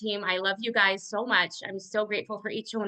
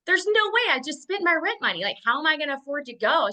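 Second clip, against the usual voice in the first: disbelieving panic; 5 semitones higher than usual. Retold or imitated. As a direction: replay the shock of being broke. Retelling her panic over rent money.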